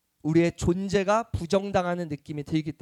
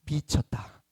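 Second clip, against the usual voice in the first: put-on kid slang; 4 semitones lower, 5 dB quieter, slower than usual. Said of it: "세 글자로 그러더라고요".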